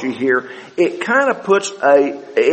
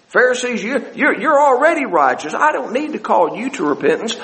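higher-pitched, lightly mocking concession; Jesus, hint of sarcasm; 6 semitones higher than usual. Jesus telling Pharisees they are already righteous, mildly sarcastic. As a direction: grant them their righteousness with gentle sarcasm. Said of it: "wasn't a hint of that".

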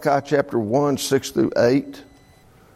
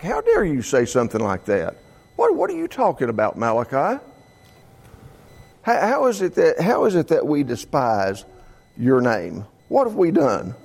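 lightly acted indignant protest against the prophet; mock indignation. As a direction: play the offended priests: how dare you. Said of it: "they're almost become indignant".

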